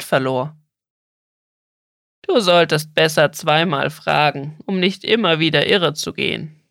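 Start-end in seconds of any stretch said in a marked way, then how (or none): 2.2-6.6 insistent turtle. Acted. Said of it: "beharrte die Schildkröte".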